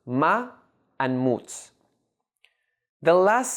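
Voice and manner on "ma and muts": "ma" and "muts" said as separate syllables. Shown as a demonstration. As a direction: lift "ma", pause, then give "muts". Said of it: "made up of two syllables".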